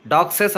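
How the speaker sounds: డాగ్సెస్ with an extra "ses" syllable; wrong plural. Shown as a demonstration. Teacher showing what must not be said, wrong plural. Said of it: "అనకూడదు".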